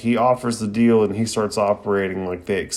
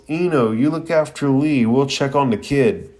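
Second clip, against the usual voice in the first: higher-pitched mock call-out; mild, raised-pitch yell; retold yell; 4 semitones higher than usual. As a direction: imitate calling across to friends, without much volume. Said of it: "Shikamaru yells".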